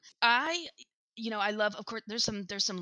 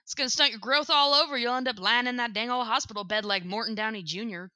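quoted Boomhauer. Retold or imitated. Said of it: "it's the part where he goes".

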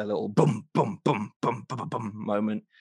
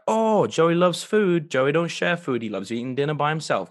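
Joey voice; 2 semitones higher, 4 dB louder than usual. Retold or imitated. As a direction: ham up Joey's love of food. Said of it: "He's like".

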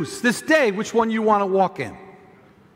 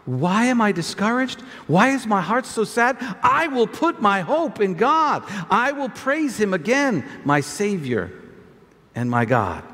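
scripture reading. Acted. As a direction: read it solemnly to the church. Reads the psalm aloud.

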